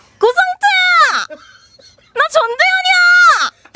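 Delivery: very high-pitched, loud shout. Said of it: "전도연 씨 성대모사를 막 시작한 사람들 같은 경우에는 이거를 해요".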